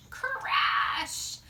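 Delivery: big dramatic crash; loud crash. Acted. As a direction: shout the crash out. Sound word in story.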